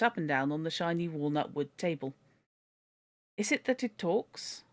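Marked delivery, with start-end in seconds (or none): 3.4-4.6 high, slow wonder; amazed French lady. A narrator's reading. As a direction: marvel at a talking bird. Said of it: "asked the lady".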